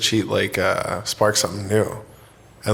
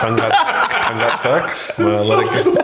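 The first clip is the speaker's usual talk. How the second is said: laughing. Real, not acted. Cracking up at own slip.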